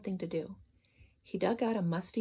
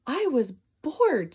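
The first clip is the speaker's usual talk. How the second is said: slow, louder, grinning; with a big smile; 4 semitones higher, 6 dB louder, slower than usual. Acted. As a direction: grin as you admit it. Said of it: "with a big smile on his face".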